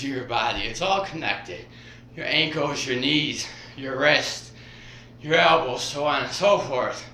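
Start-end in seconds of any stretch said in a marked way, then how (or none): 2.2-7.0 a little winded while talking; short of breath mid-workout. Real, not acted. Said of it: "I'm out of breath".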